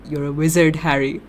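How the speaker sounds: bad, lightly voiced character impression; Hagrid. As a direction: make a half-hearted stab at a famous film line. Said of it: "That was such a bad impression".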